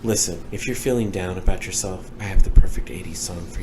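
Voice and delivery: ASMR radio host voice. Pretend. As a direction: purr it like a late-night radio DJ. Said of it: "Please stop this".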